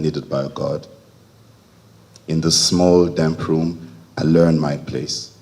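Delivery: measured, intimate poem reading with lingering pauses; poetry recital. Acted. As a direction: give each phrase its own space, as in verse. Reads third poem aloud.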